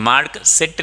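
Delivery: "सीट" as "sit", with s and short i; wrong s and short vowel. Shown as a demonstration. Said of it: "नहीं बोलेंगे".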